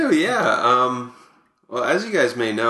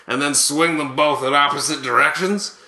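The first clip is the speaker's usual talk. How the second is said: Buck Martinez. Acted. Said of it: "here to present these is Buck Martinez".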